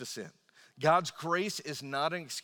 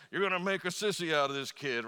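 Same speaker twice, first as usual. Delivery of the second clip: higher, louder mock dad scoff; dad scoffing at mom for coddling the kid; 4 semitones higher, 5 dB louder than usual. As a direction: scoff at mom's fussing like a gruff dad. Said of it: "dad's like".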